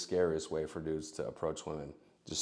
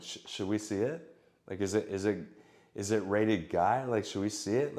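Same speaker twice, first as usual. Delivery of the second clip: a little goofy. Shown as a demonstration. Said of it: "try to be a little goofy".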